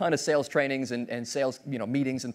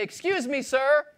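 high, eager salesman voice; overly polite timeshare pitch; 10 semitones higher than usual. Acted. Stranger stopping the boss to pitch a timeshare, high and eager. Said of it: "and then you stop me, and you say".

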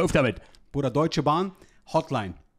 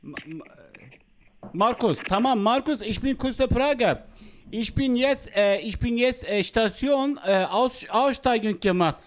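put-on Vietnamese accent in German; 3 semitones higher than usual. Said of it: "Hotel muss man als Vietnamese anrufen".

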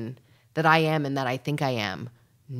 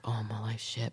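whispered; 3 semitones lower, 6 dB quieter than usual. Retold or imitated. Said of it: "three or four days of being like".

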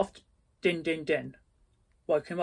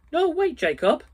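much higher, louder desperate cry; 12 semitones higher, 8 dB louder than usual. Acted. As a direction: cry out after the vanishing ghost. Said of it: "cried Scrooge".

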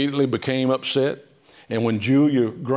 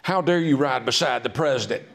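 screechy Mary Lincoln; 4 semitones higher than usual. Retold or imitated. Speaker imagines Mary Lincoln berating Mary Ord, higher mock screech. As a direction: scold her as a jealous wife, hammed up. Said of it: "it had some screech to it".

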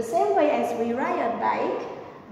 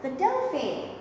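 lightly acted call, higher pitch; higher-pitched pretend shout to a friend; mock shout; 6 semitones higher than usual. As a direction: call it out like a half-hearted shout. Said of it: "She shouts".

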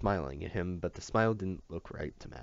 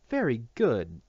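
louder bright "Very good"; cheery cry; 4 semitones higher, 6 dB louder, slower than usual. Acted. Teacher praising each finished lesson with a loud cheer. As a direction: cheer it out to the child. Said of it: "teacher cried".

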